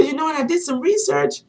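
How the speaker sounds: high-pitched eager retelling; imitating passionate man. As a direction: act out his excited discovery. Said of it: "he was so passionate about what he was talking about".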